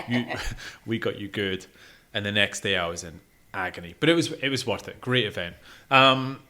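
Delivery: usual speaking voice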